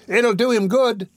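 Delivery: high, slow women's voice; approving women. A narrator's reading. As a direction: chime in high and drawn-out. Two women approve the beating.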